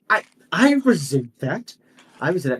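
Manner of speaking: a touch of indignation, starting high; understated affronted retort; mildly offended. Acted. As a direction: stammer into a lightly acted protest. Offended member answers back.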